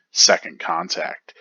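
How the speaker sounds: high and loud title read; chapter title announcement. Acted.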